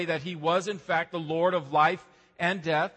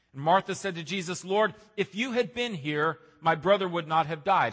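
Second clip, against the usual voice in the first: measured Bible reading to the congregation; scripture reading. Acted. Pastor reading John aloud to the standing congregation, measured. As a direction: read the passage steadily, with weight.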